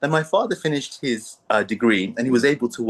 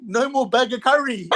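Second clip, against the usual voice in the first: put-on high, laughing cheer of a happy kid; kid's happy cry of relief; gleeful cheer; 11 semitones higher than usual. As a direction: celebrate like a child freed from burger curry. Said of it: "I remember saying".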